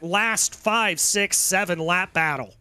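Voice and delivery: breathless after hooting and hollering; out of breath. Real, not acted. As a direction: talk while still catching your breath. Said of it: "I'm out of breath up in the booth".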